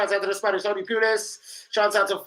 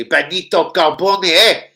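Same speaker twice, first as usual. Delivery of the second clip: slow drawn-out name; 8 dB louder, slower than usual. Real, not acted. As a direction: stretch the name out slowly, loud. Hailing an old player.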